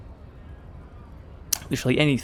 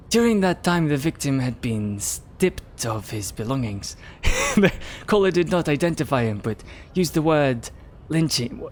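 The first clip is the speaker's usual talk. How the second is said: put-on stronger Asian-American accent. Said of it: "Miss, just miss all the R letters".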